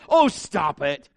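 slow, dismissive brush-off; dismissive sister. Retold or imitated. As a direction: wave off a whining brother. Sister dismisses his complaint.

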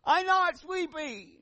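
put-on drawn-out stubborn child protest; child's whine. Daughter answering her father from bed, high and slow.

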